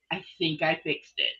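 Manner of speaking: sounding across the room; quiet mic audio. Real, not acted. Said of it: "you're a little low".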